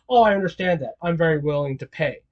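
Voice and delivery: low, quiet assurance; a hint of a smooth rich man; lightly voiced Muzan. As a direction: Muzan calmly agreeing to pay. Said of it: "he could just be like".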